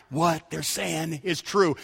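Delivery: slow hushed inner voice; Holy Spirit whisper. Retold or imitated. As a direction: murmur it gently, as if inside someone's heart. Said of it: "the Holy Spirit began to whisper".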